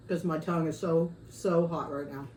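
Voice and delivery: talking while chewing chips; words round a mouthful; mouth full. Real, not acted. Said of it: "Sorry to talk with my mouth full".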